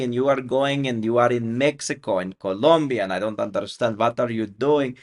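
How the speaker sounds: a son mimicking his mom's Eastern European accent, puzzled. Son quoting his immigrant mother, in a puzzled Eastern European accent. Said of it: "she's got this Eastern European accent".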